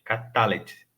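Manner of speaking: catalete stressed on TA; low-pitched catalete, beat on the middle TA; corrected catalete. Shown as a demonstration. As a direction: catalete as ka-TA-let. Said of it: "Não é catalete, não, é catalete".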